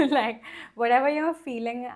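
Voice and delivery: real giggle while talking; laughing through words. Real, not acted. Coach giggling at her own rain image, laughing. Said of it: "I'm laughing because".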